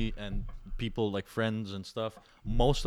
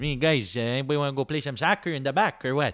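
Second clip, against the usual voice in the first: put-on loud, heavy Italian accent, laid on thick; 3 semitones higher, 5 dB louder than usual. Recalling walking into school among French kids, in a thick Italian accent. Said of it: "I used to have that thick accent".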